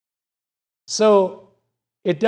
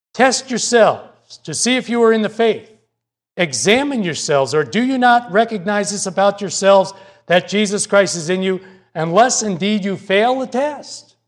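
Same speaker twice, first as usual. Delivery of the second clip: reading the verse out with raised pitch and a bit more volume; slightly heightened preacher's scripture reading; 2 semitones higher than usual. Acted. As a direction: read the warning as scripture, with weight. Reads scripture aloud.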